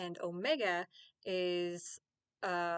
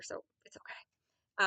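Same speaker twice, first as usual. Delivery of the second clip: whisper; slower than usual. Real, not acted. Joking aside about heritage.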